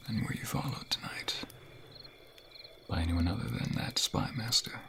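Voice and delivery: hushed secretive whisper. Acted. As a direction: lean in and whisper the question. Secret meeting.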